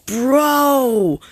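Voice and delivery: laughing disbelief. Real, not acted. Laughing at chat message.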